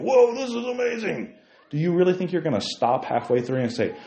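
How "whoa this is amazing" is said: high mock-dazzled teen; lightly mock a swept-away teen; mock rapture. Mocking a tempted teenager.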